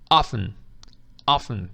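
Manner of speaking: OFTEN said as OFF-un, no T; silent T. Shown as a demonstration. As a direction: model OFTEN clearly with the T dropped. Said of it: "a letra T é muda". (often com o T mudo, "ófen")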